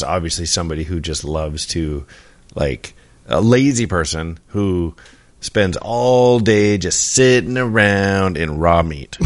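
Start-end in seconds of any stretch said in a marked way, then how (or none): 5.4-9.2 laughing. Real, not acted. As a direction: laugh the words out. Joking guess, laughing.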